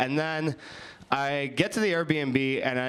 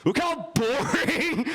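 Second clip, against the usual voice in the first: mock boredom; 11 semitones higher, slower than usual. Mocking again, higher and slower.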